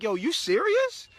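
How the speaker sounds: can't believe she asked this; slow high laughing question; laughing disbelief. Retold or imitated. Retelling his laughing reaction.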